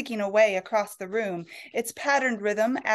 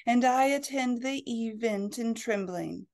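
sleep-inducing reading. Acted. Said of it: "in her most moderate, sleep-inducing tones".

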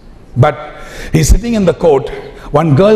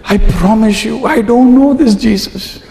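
a touch of heated denial, higher; angry denial; 7 semitones higher than usual. Retold or imitated. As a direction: swear it off with a mild retold anger. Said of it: "Peter got mad".

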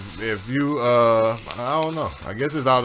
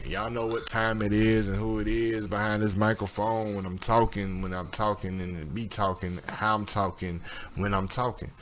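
smooth radio host. Pretend. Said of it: "How's that for an introduction?".

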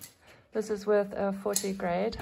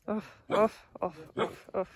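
imitated barking. Imitating dog barks.

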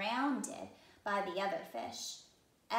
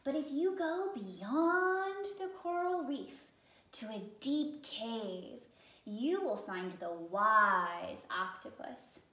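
starfish voice; 4 dB louder, slower than usual. Acted. Starfish gives advice.

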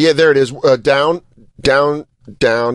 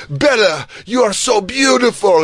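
mocking commenters; 6 semitones higher than usual. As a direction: gush like a thirsty fan. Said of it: "all the comments are like".

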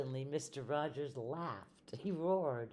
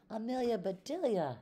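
high, loud call across the house; yelled; 8 semitones higher, 5 dB louder than usual. A narrator's reading. Mister Rogers calling for Amelia Bedelia, loud yell. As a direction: shout her name from the doorway. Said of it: "yelled Mister Rogers".

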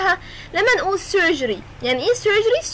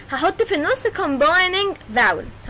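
slowly spelling out combining vowel for students; drawn-out classroom emphasis on the rule; slow emphatic teaching; much slower than usual. Shown as a demonstration. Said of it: "teacher repeats key rule slowly".

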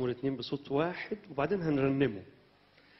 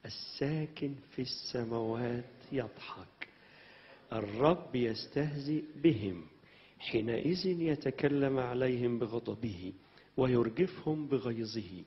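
scripture reading; much slower than usual. Acted. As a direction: recite each verse slowly to the church. Reads psalm slowly. (قراءة المزمور ببطء)

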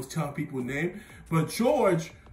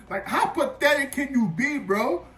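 laughing scold; 8 semitones higher than usual. Real, not acted. Scolding younger self, laughing.

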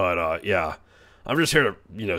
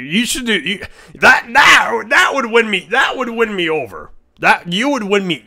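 high, loud excited yell; excited shout; 9 semitones higher, 5 dB louder than usual. Real, not acted. Praising a chatter's name idea with a loud yell. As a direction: burst out shouting with glee.

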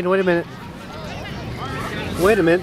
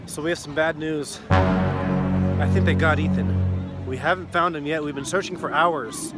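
grim news; 3 semitones lower than usual. Acted. Acted grim news report.

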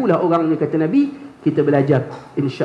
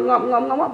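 high-pitched mock chomping noises; imitated gobbling; 7 semitones higher than usual. Preacher mimics a student wolfing food at iftar, playful gobbling. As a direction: mimic greedy mouthfuls, one after another.

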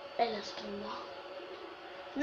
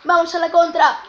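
urging on; 5 dB louder than usual. Real, not acted. Urging a counterattack in game.

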